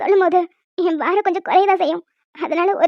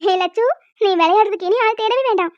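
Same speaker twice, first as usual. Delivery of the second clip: excited; 3 semitones higher than usual. Acted. Sister excited, teasing.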